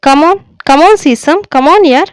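urging her on. Acted. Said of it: "తొందర పెట్టాడు".

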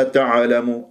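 تعلم with an echo vowel after ع; bounced ayn mistake. Shown as a demonstration. Teacher shows what to avoid, ayn bounced. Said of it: "حتى لا تقلقلها".

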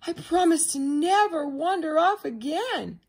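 high, loud duckling voice; happy little duckling. A narrator's reading. Duckling promises Mother Duck, high and happy.

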